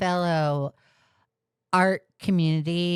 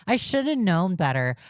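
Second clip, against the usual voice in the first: higher mocking whine; mock whiny quote; 3 semitones higher than usual. Streamer mocking excuses from grown adults, whiny. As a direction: sneer the excuse back. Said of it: "sick and tired of hearing the excuse".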